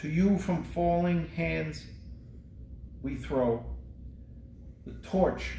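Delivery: slow, solemn memorial poem reading; poem recitation. Acted. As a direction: recite it like a tribute to the fallen.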